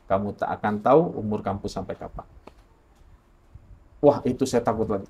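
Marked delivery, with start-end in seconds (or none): 0.0-2.2 lightly voiced, ominous inner voice; hushed, measured questioning; mysterious voice. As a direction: quote the warning softly and deliberately. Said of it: "intonasinya sama".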